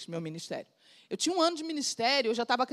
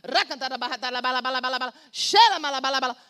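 speaking in tongues. Real, not acted. Speaking in tongues mid-sermon.

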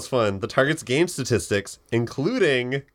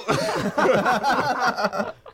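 T-Rex roar; 12 semitones higher than usual. Pretend. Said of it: "your best roar".

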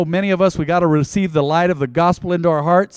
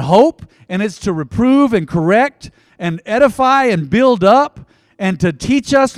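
fervent prayer; 2 semitones higher than usual. Acted. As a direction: pray with building fervor. Preaching prayer.

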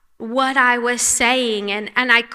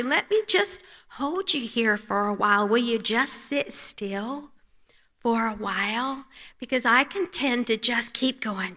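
soft, gentle invitation, much quieter, slowing toward the end; tender voice of God; 5 dB quieter than usual. Acted. God gently calling Amber to come and rest on his lap, hushed and tender. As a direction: coax her onto your lap like a loving father.

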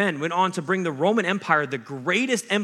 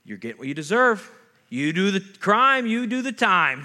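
mock condemnation; 4 semitones higher, 4 dB louder than usual. Voices a condemning judge, rejected.

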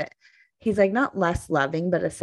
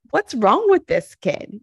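mock exasperation; 7 semitones higher, 5 dB louder than usual. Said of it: "And I'm like".

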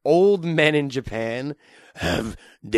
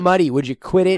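louder, higher put-on voice; character voice; 6 semitones higher, 5 dB louder than usual. Showing off accents, louder put-on voice. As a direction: scold like a cartoon character. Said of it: "I can do accents".

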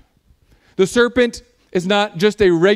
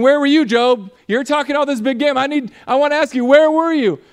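louder, higher mocking challenge; God taunting Job in a mocking, raised voice; sarcastic God; 4 semitones higher, 4 dB louder than usual. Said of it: "this is God's sarcasm".

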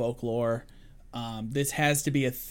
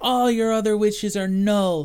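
high, loud mock-triumphant cackle and crow; gloating trickster king; 7 semitones higher, 6 dB louder than usual. Leprechaun king tricking Darby out of wishes, gloating. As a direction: crow over a trick with a theatrical laugh.

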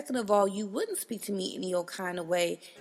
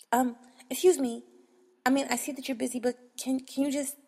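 mock polite interruption; 3 semitones higher, faster than usual. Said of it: "come up and say".

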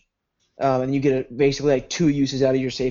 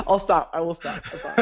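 laughing; 2 semitones higher than usual. Real, not acted. Can't stop giggling.

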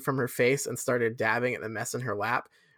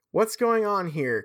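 mild shout; 5 semitones higher, slower than usual. Acted.

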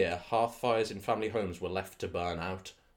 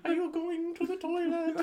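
put-on Irish accent. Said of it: "all just have the same voice".

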